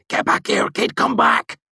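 urgent unvoiced hiss; hushed urgency. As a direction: whisper it fast and urgent. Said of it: "he hissed urgently".

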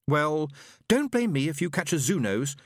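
lightly voiced, miffed woman; a hint of a flouncing girl; huffy young woman. A narrator's reading. Kajar huffs off.

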